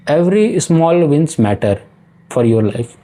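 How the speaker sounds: very slow, every word weighted; slow emphatic motto. Shown as a demonstration. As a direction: lay the words down one by one. Stating the point's motto. (बहुत धीमे, हर शब्द पर ज़ोर)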